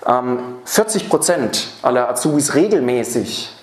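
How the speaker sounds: regelmäßig slowed and leaned on; stress on regelmäßig. Shown as a demonstration. Trainer warns audience about trainees' overtime, stress on regelmäßig. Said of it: "Betonung liegt auf regelmäßig".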